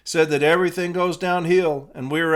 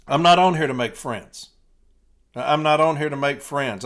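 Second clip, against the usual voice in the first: louder, driving the line home; emphatic loud repeat; 3 dB louder than usual. Shown as a demonstration. Rallying the light blue, loud and emphatic. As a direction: hammer it at the listeners. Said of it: "I said".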